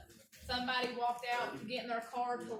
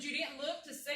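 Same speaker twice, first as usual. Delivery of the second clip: higher-pitched disbelieving question, half laughing; incredulous retelling; 5 semitones higher than usual. Retold or imitated. Speaker questions the medic who walked by, incredulous. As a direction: challenge them as if you can't believe it.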